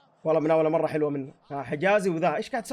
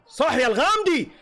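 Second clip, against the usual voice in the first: excited cheer; 8 semitones higher, 3 dB louder than usual. Real, not acted. Cheering a player's good play.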